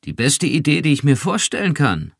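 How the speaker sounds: lifted with a touch of relief; a mildly relieved detective. A narrator's reading. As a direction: let the tension go. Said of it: "sagte Rick erleichtert".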